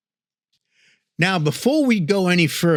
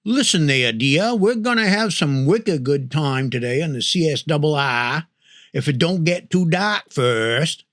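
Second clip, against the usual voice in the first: Maine accent. Shown as a demonstration. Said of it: "how folks say it up here".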